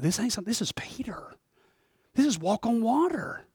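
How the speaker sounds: intense whisper; a whispered emphasis. Real, not acted. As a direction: drop into a whisper for effect. Preacher stressing who Peter was.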